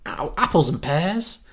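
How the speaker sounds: slow, questioning stab at Cockney; Cockney attempt. Shown as a demonstration. Searching for how Londoners speak, tentative slow Cockney. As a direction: draw it out in a tentative Cockney accent. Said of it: "in Cockney?".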